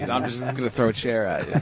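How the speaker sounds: understated, even retold menace; calm threat. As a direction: state the threat as a casual plan. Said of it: "the way he so calmly said it".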